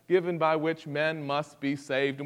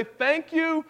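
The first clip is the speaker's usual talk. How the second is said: grateful prayer. Pretend. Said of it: "But we'll stand before God and say".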